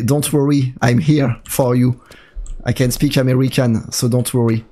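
slow, hammed-up American English accent; mock American accent. Streamer teasing chat translators, slow mock American accent. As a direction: play the helpful American translator, slowly. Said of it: "l'accent anglais".

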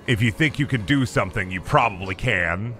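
low, deep mock-wise voice; mock motivational. Gamer reciting a motivational meme line, deep mock voice. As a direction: deliver it like a gruff mentor.

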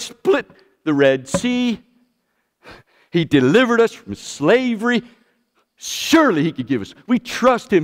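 voicing the Israelites, casually unbothered; mock complacent Israelites. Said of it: "You think they said".

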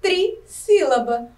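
"trissílaba." slowed and lifted; new term stressed. Shown as a demonstration. Teacher introduces a new term to pupils, slowly. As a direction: give the new word "trissílaba." careful weight. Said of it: "a classificação pra três sílabas é".

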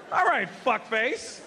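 mad. Retold or imitated. Man addressing someone whose name he doesn't know, mock mad. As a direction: act mildly fed up, slowly. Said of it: "So I got mad".

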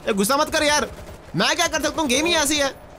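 high-pitched, pleading protest. Real, not acted. Gamer defending himself to an annoyed teammate, high-pitched protest.

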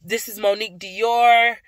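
bright announcer outro; sign-off catchphrase. Acted. Vlogger closing the video with her catchphrase, announcer style. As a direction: proclaim it like a tagline.

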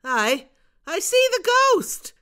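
high, loud call across; shouted. Acted. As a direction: yell it out from the cave top. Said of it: "and he shouted".

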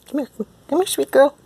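very high, loud coaxing squeal; squeaky cat call. Real, not acted. Owner calling her cat over in a squeal.

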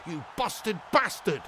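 slow, lightly voiced bear line; mild slow bear impression; imitating the little bear. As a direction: drag out the bear's insult. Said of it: "he spoke like this".

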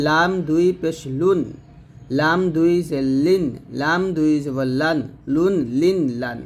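measured spelling chant, light l in "লুন", "লিন", "লান"; thin light lam. Shown as a demonstration. Teacher modelling lam with tanween, thin and measured. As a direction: draw out "লাম", then thin l on "লুন". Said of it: "লামটা অবশ্যই পাতলা করে উচ্চারণ করবেন".

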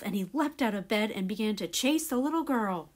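put-on lively children's storyteller; story narration. A narrator's reading. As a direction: read it to young listeners as a story.

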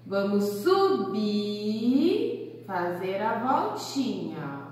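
slowed, singsong tracing words; slow demonstration. Shown as a demonstration. Teacher guides kids through the stroke, slowed. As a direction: stretch it gently as you draw. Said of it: "Olha lá o ponto de partida".

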